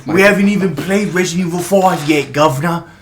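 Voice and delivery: high, loud put-on character voice; cartoonish high voice, laughing through; silly put-on voice. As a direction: squeal it as a goofy cartoon figure. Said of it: "ability to do the voice".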